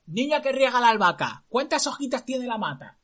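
high, loud teasing rhyme; teasing prince. Acted. Prince teases the girl watering basil, sing-song.

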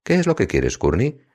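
pitched well up, irritated demand; a hint of a growl, exasperated; mild growl. A narrator's reading. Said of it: "gruño". (gruñido leve, exasperado y agudo)

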